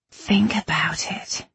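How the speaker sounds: slow, heavy-mouthed whispery mumble; faint words, thick on the tongue. A narrator's reading. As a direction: mumble as if close to passing out. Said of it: "she mumbled, the words thick and heavy".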